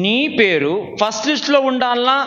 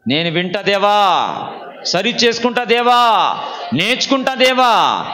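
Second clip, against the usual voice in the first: led prayer; 2 semitones lower than usual. Real, not acted. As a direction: call out to God, stretching each line's end. Leads the congregation in prayer. (దేవునికి వేడుకుంటూ సాగదీసిన ప్రార్థన)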